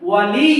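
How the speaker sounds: ওয়ালি with লি lengthened and leaned on; hang on লি. Shown as a demonstration. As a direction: swing onto the doubled y after লি. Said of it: "লি বলে একটা ঝুল দিতে হবে". (ওয়ালি-র লি-তে ঝুল দিয়ে)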